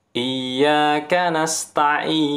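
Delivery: chanted recitation at medium length; medium tawasud recitation. Shown as a demonstration. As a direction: recite Iyyaka with moderate lengthening.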